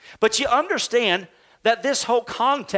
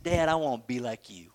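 low, soft retelling of a sheepish son; hushed, low-key sheepish admission; sheepish child; 7 semitones lower, 6 dB quieter, faster than usual. Retold or imitated. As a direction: quietly imitate a bashful kid admiring his dad. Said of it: "kinda sheepishly".

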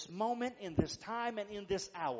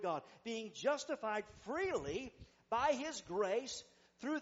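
emphatic reading aloud from the pulpit; scripture reading; 4 semitones higher than usual. Real, not acted. Preacher reading Romans chapter three to the congregation, emphatic scripture reading. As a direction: read the verses out with weighty phrasing.

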